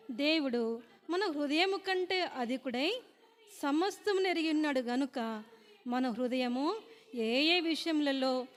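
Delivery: slow, measured Bible reading; deliberate recital of scripture with drawn-out phrase endings. Acted. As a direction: read the verse out slowly, phrase by phrase. Reads a Bible verse aloud.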